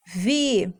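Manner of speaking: VI-TA-MI-NA with long gaps between syllables. Shown as a demonstration. Teacher dictating syllables to copy, VI-TA-MI-NA widely separated. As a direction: dictate VI-TA-MI-NA piece by piece. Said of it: "copiar a primeira sílaba".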